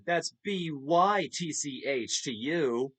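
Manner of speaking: lightly imitating a sassy TV heel, slow; a hint of in-your-face attitude, drawn out; sassy wrestler. A fan mimics Dawn Marie's TV catchphrase, mildly sassy. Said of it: "really sassy, really in your face".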